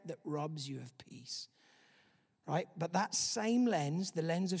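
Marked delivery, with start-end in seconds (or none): 0.1-1.5 whisper. Acted. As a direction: breathe it out like a secret. Preacher drops to a whisper.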